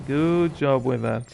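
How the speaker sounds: sarcastic. Acted. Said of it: "he says sarcastically".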